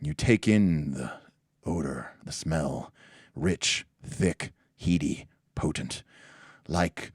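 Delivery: slow, soft, savoring description; game master narration. Acted. Game master describing the smell of the drink, hushed slow narration.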